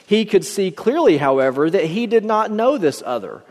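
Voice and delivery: measured, expressive read-aloud storyteller; story narration. A narrator's reading. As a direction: read the parable out with lifted emphasis. Reads a parable aloud.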